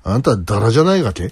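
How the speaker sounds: shaky-accented Toyama question; Toyama dialect. Shown as a demonstration. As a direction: wobbly attempt at Toyama dialect. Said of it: "だいぶ崩れてきた。".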